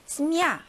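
스미야 with a full, stressed final 'ya'. Shown as a demonstration. Teacher checking an answer choice, stressed full 야 in 스미야. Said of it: "강세 있으니까 당연히 자기 소리 나겠죠".

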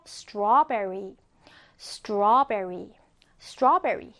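slow, careful model reading of "strawberry"; model pronunciation. Shown as a demonstration. Teacher modelling "strawberry" for learners, slow careful pronunciation. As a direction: stretch out "strawberry" clearly for copying. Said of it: "자, 발음해 볼게요".

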